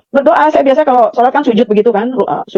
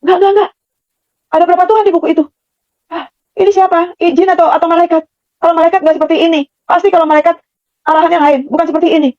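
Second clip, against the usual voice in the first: retold challenge in a raised pitch; forceful inner protest; 5 semitones higher than usual. Woman challenges the mysterious voice in her heart, high and insistent. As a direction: argue back insistently, voice pitched up. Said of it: "tapi keras".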